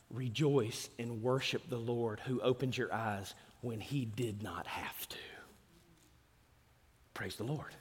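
soft, slowed, almost whispered worship; hushed praise. Real, not acted. Preacher closing a point to the congregation, hushed and reverent. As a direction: let it fall to a reverent hush. Preacher drops to prayerful hush.

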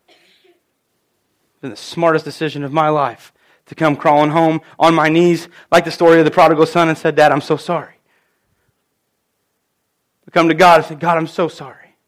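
emotional. Real, not acted. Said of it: "probably not without getting emotional".

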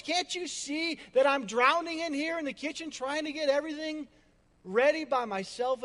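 overworked sister demanding help; exasperated complaint to Jesus. Retold or imitated. Martha complains to Jesus, exasperated and loud. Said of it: "and she asked".

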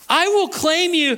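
high-pitched scripture proclamation; forceful preaching. Acted. Preacher reads God claiming his people, forceful.

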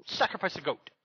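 high, whimsical capricious god voice, loud at the end; mock a moody god on a whim; fickle deity. A fickle god ordering the planet to sacrifice goats, whimsical then shouting. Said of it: "fickle deity that says".

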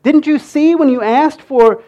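high, loud, building disbelief as each question piles on; exasperated God. Pretend. God scolding the ungrateful Israelites, exasperated and pleading. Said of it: "I can just see God going".

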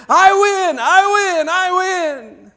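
high, loud victory cry, easing off at the end; shouting. Acted. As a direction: crow in triumph like a winning boy.

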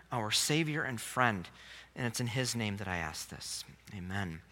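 soft, low pastoral prayer. Real, not acted. Pastor asking the Heavenly Father for understanding, soft prayer. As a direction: pray quietly and humbly, settling down to the amen.

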